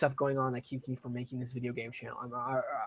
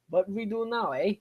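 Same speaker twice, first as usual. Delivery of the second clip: high, dim peasant asking; simple villager voice; 7 semitones higher, 5 dB louder than usual. Pretend. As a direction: voice a clueless villager. Voicing game villagers.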